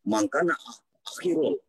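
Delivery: broken-up call audio, words dropping out; choppy connection. Real, not acted. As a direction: voice cutting in and out like a glitching robot. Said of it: "Suaranya putus-putus".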